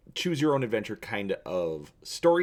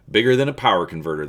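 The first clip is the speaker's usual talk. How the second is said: snap; 8 dB louder, much faster than usual. Acted. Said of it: "the Corellian snaps".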